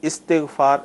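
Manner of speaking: استغفار as istighfaar, short i first; correct pronunciation. Shown as a demonstration. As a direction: confirm استغفار with i under the alif, long final aa. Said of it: "صحیح تلفظ یہی ہے". (استغفار الف کے نیچے زیر کے ساتھ)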